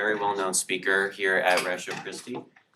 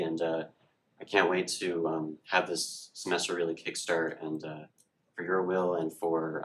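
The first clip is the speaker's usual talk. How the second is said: earnest spoken group prayer; opening prayer. Real, not acted. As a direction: lead the room in prayer.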